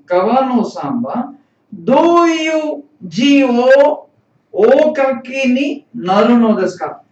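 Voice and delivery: deliberate teacher's read-aloud, voice lifted mid-sentence; slow model reading. Shown as a demonstration. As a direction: read it out phrase by phrase for learners. Teacher reads dialogue line for learners.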